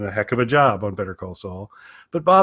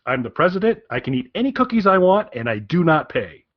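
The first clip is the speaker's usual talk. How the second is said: mock presidential bluster. Shown as a demonstration. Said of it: "Modified version".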